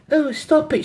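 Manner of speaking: put-on very high London accent. Second London girl stopping her friend, London accent. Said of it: "have a go at the accents".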